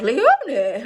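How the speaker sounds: put-on lightly done posh English accent on the name; posh grandma accent. Granddaughter mimics her grandma saying her name, lightly posh accent. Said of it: "she says my name".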